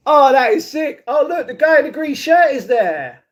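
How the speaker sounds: high, thrilled, spotting someone; excited exclamation. Real, not acted. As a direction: call out the discovery with real excitement. Spotting another person with delight.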